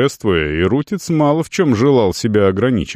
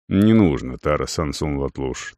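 hurried; 7 semitones lower, 4 dB quieter than usual. A narrator's reading. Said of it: "торопливо сказал северянин".

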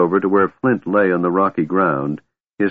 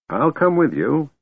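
gently; 8 semitones higher than usual. A narrator's reading. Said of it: "Fizban promised gently".

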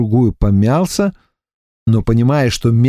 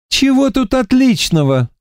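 much higher, scornful objection; disagreeing; 13 semitones higher than usual. A narrator's reading. Тимохин возражает блондину, насмешливо и высоко. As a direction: scoff at the good news. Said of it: "не согласился с ним".

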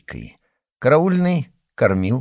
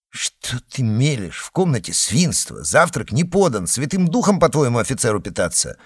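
angry; 2 semitones higher than usual. Acted. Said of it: "сердитый приказ".

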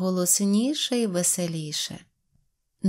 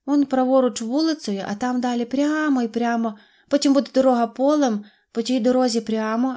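put-on higher storybook girl explaining; little girl's voice; 4 semitones higher, 4 dB louder than usual. A narrator's reading. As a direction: give directions as a small girl. Little girl gives directions. (високий голос малючки)

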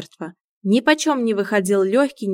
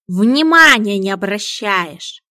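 scolding; 9 dB louder, slower than usual. Acted. Cat scolds Ilya.

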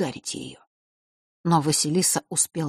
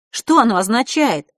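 loud, higher, losing patience; exasperated outburst; 6 semitones higher, 7 dB louder than usual. A narrator's reading. Сестра срывается на брата, громко и раздражённо. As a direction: she finally snaps at her brother. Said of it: "не выдержала Василиса".

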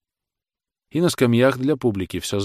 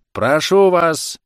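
slow, much higher and louder cry; old judge yelling to silence the defendant; shout; 9 semitones higher, 8 dB louder, much slower than usual. A narrator's reading. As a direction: cut him off with a shrill shout. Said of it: "крикнул старичок".

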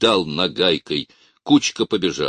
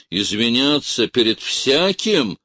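bass shout; 6 semitones higher, 4 dB louder than usual. A narrator's reading. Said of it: "крикнул бас".

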